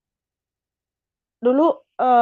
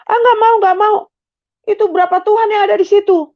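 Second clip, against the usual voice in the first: higher and louder, pushing back fast; alarmed refusal; 8 semitones higher, 3 dB louder than usual. Retold or imitated. Sri refusing the mysterious voice, raised and alarmed. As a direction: refuse it, startled and defiant.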